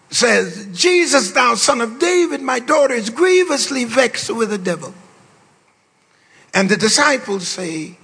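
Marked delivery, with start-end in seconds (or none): 0.7-4.9 higher pleading cry, voiced as the woman; woman hollering to Jesus. Preacher voicing the desperate mother, higher pleading call. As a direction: call out to Jesus, begging for her daughter. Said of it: "the woman hollers at him".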